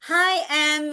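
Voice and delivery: high singsong hello to parents; lilting, friendly greeting; modeled greeting. Retold or imitated. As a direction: re-enact greeting a family for a child. Re-enacts greeting the little boy.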